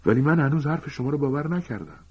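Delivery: Harry answers Lupin sharply, still distrustful; sharp reply. A narrator's reading. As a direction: snap back in distrust. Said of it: "هری به تندی جواب داد".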